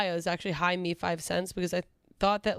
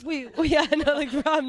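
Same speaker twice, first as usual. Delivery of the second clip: nervous laugh; 4 semitones higher, 4 dB louder than usual. Real, not acted. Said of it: "This nervous laugh".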